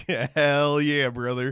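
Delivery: slow buddy-to-buddy amen; mock approval. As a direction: cheer the preacher on slowly, tongue in cheek. Cheers the Southern preacher, first take.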